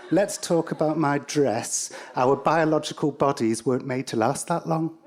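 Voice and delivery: a hint of a halting robot; mild robot impression. Robot Bina answering oddly.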